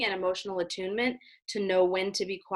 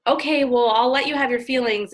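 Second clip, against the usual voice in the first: dismissive parent; 4 semitones higher, 4 dB louder than usual. Retold or imitated. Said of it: "parents will go".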